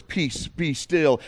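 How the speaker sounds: slow, measured command to the storm; hushed authoritative Jesus; commanding calm. Acted.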